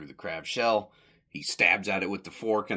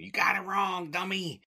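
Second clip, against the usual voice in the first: mock viewer; 11 semitones higher than usual. Mock angry viewer email.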